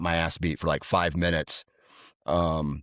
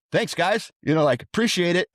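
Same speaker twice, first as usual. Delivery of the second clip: sarcastic thanks; 9 semitones higher than usual. Retold or imitated. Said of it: "I was just like".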